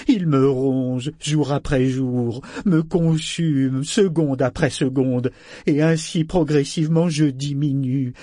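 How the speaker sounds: slow, heavy, forceful lament; anguished living ship. Acted. Ship laments its endless hunger, slow anguished outpouring. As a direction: pour out torment, word by word. Voices the ship's despairing monologue.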